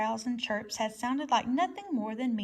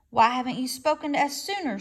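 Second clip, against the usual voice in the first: screech; 2 semitones higher, 5 dB louder than usual. Acted. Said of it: "screeched the owl".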